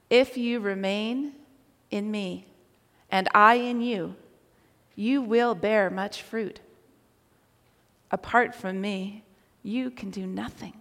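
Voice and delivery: unhurried, reverent delivery; solemn scripture reading. Real, not acted. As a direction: recite the verses gently, letting each phrase settle. Recites scripture to congregation.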